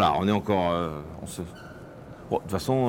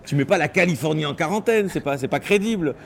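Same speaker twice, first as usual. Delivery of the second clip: mock outrage; 5 semitones higher than usual.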